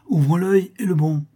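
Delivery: sharp hushed alarm call; cried out. A narrator's reading. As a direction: call out to your comrade. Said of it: "m'écriai-je".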